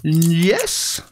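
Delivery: drawn-out pretend British yes; mock British accent. Child asks if he is British, mock British yes. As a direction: keep up the British act. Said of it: "Are you British?".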